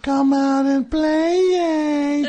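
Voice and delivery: loud, high DJ call; sing-song announcer calling out; radio voice. Acted. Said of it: "radio voice".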